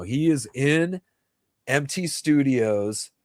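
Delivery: ordinary talk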